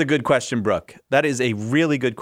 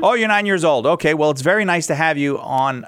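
upbeat; 3 semitones higher, 3 dB louder than usual. Real, not acted. Host responds to young child.

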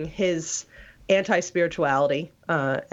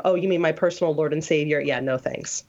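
a deliberately bad, hammy Southern accent. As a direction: put on a lightly exaggerated Southern accent. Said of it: "I affected a very bad Southern accent".

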